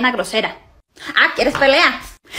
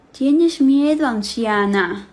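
teasing mock spooky; much slower than usual. Granddaughter teasing grandmother.

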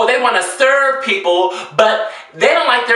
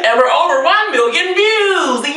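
excited shout; 9 semitones higher, much slower than usual. Real, not acted. Celebrating the milestones.

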